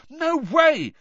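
high, loud furious outburst; furious shout. Acted. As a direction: fling it out furiously. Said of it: "said Harry furiously".

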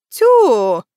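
loud surprised southern tyu. A narrator's reading. The taxi driver sees the women back, loud surprise. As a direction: blurt out surprise. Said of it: "удивился благодушный таксист".

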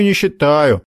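dismissive repeat. Acted. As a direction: drop it dismissively. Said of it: "отмахнулся Макар".

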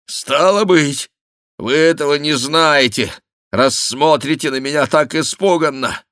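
высоко и громко, медленно в начале; воскликни поражённо; восклицание. A narrator's reading. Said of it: "воскликнул барон". (восклицание барона)

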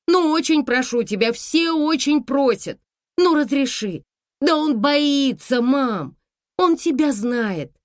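high, loud begging voice; pleading daughter. A narrator's reading. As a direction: coax mother into saying yes. (дочь упрашивает маму разрешить)

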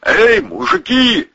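high, drawn-out call; calling from afar. A narrator's reading. Someone by the jeep hailing the men, calling out. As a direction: holler slowly across a distance. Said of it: "долетело от джипа".

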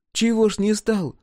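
high-pitched, challenging question; sullen woman. A narrator's reading. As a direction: put a curt challenge in a high voice. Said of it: "впервые подала голос хмурая Чернава".

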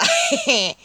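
high, hoarse demon cackle; hoarse laugh. Acted. Demon laughs at Vasilisa, hoarse high cackle. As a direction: cackle raspily. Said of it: "послышался хриплый смех".

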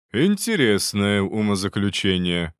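slow, amused smirk. Acted. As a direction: say it with a wry smirk. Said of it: "усмехнулся наставник".

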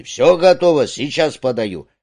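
brisk call that drops to normal. Acted. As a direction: call from the kitchen door, high and loud at first. Cook calls from kitchen door.

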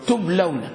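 "تبلون" as tub-law-na, diphthong "law"; model pronunciation. Shown as a demonstration. Teacher answers how to pronounce it, as a model. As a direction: pronounce "تبلون" joined, with a falling end. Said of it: "كيف نطقها؟".

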